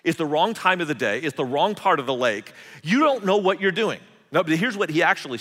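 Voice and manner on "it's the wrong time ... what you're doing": a touch of scornful pride; mock indignant fisherman. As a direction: talk down to the carpenter, half in jest. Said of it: "said something like this".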